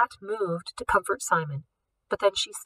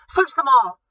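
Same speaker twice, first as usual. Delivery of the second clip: louder, higher barked command; yelled order; 6 semitones higher, 8 dB louder than usual. Acted. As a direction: snap the order out. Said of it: "the director yelled".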